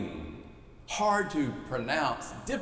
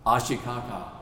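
calmly; 4 semitones lower than usual. Retold or imitated. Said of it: "she said calmly".

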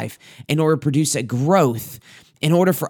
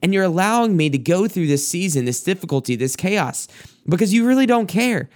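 pitched-up, lightly acted anguished complaint; Job pouring out his heart; 5 semitones higher than usual. Job accusing God of playing a game, lightly voiced higher plea. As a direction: let Job's hurt rise as he accuses God, understated. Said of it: "Job pouring out his heart to God".

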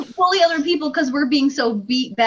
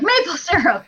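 mock Canadian; 6 semitones higher than usual. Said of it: "A flawless impersonation of our neighbors".

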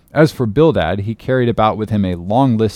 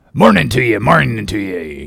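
Elijah's voice. Acted. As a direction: toss off a repeated farewell in character. Elijah's farewell, put-on voice.

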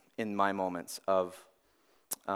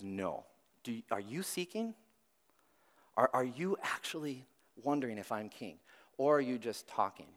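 soft Jesus voice; 6 dB quieter than usual. Acted. Jesus quietly questioning Pilate.

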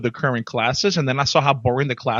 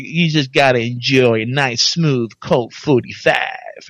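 a lightly done, slow, smooth ad-man croon; Billy Dee Williams; slower than usual. Retold or imitated. Recalling the HR director's voice for the host, slow smooth croon. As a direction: ease it out like an old liquor commercial, a hint of the star. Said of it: "you remember Billy D Williams".

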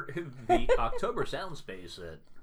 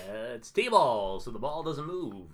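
baseball announcer voice; 3 semitones lower, slower than usual. Acted. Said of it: "baseball announcer voice".

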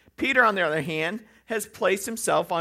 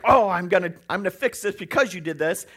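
mock angry retort; 6 dB louder, faster than usual. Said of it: "Quick to anger is like".

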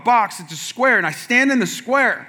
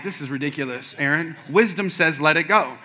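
quiet, lower voice of reason; low self-talk; 5 semitones lower, 5 dB quieter than usual. Retold or imitated. Lifter reasoning with himself to give up, low and quiet.

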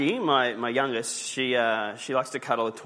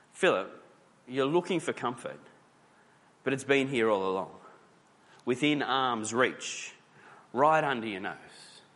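gentle patient reply. Retold or imitated. Jesus answering Philip, patient and gently reassuring. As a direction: let each phrase land slowly and kindly.

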